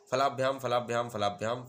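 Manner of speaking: quick, loud rattled-off repetition; fast rattle. Shown as a demonstration. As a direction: rattle the three forms off at speed. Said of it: "इसको थोड़ा speed में पढ़ते हैं". (तेज़ रफ़्तार से रटना)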